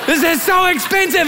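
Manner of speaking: high, tearful mock complaint; hammed-up distressed whine; rage tears. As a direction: imitate an upset wife wailing. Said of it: "these were rage tears".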